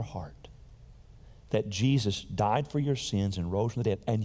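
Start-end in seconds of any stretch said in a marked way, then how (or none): 0.0-0.5 slow intimate whisper. Acted. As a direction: draw them in with a slow whisper. Preacher stresses heartfelt belief.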